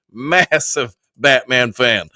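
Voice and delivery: slow, put-on Batman voice. Host answering a chat request, in a slow Batman voice. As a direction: drag the words out like the Caped Crusader. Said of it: "Batman voice".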